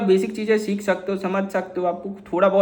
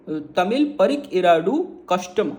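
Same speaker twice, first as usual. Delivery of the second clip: slow Tamil demo. Shown as a demonstration. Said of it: "ये कैसे चालू करोगे?".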